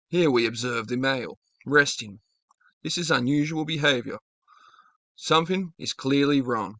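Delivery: light hushed nature documentary narration; a hint of a wildlife narrator observing the male; David Attenborough voice. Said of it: "David Attenborough's voice kicks in".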